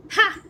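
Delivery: one short loud buzzing ha; buzzing laugh. Acted. Bee queen laughing at the request, buzzing ha. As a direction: bark a single mocking laugh. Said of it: "lets out a buzzing laugh".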